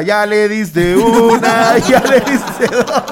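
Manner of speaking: yelling across the room. Retold or imitated. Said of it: "el gerente gritando desde la puerta".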